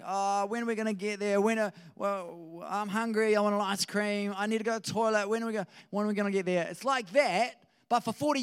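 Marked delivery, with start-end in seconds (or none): 0.0-6.7 imitating whingeing children, pitched up; mock backseat whine on a long trip; whining kids. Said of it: "they're whinging and whining like".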